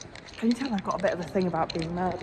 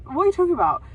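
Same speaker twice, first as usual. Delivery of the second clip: retold disbelief; 8 semitones higher, 5 dB louder, faster than usual. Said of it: "And I was like".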